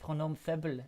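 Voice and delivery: French-accented pronunciation of the name. Shown as a demonstration. Streamer copying co-host's pronunciation of the name, French accent. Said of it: "in a French accent".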